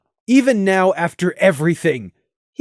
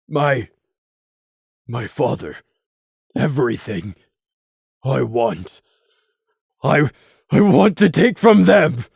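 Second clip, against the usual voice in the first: put-on grieving young stallion. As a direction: hold back the tears. Crimson's grieving speech.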